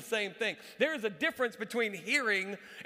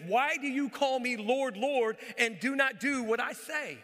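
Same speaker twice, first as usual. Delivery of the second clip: forceful rebuke; 3 semitones higher, 3 dB louder than usual. Acted. Jesus quoted in sermon.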